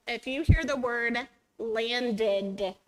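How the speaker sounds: landed, stretching the ed ending slowly; slow and deliberate, landing on the final d of landed; exaggerated word endings. Shown as a demonstration. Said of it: "what do you hear?".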